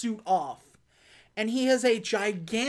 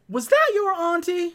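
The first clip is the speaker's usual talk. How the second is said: mock sympathy; 9 semitones higher, 5 dB louder than usual. Jay mock apologizing to bug.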